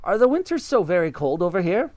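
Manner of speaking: monkey pleased with the tree house; Mugglewump. Acted. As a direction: ask it innocently.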